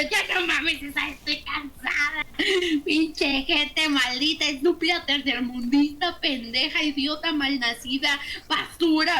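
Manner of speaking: slow, emphatic angry insult list; ranting to César about the neighbours; venting rant. Retold or imitated. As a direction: spit out each insult, fed up. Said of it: "me senté con César y yo".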